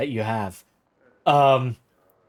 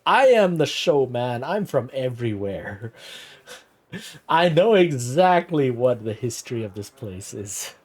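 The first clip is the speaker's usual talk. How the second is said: mock showman. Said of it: "ostentatious personality is like".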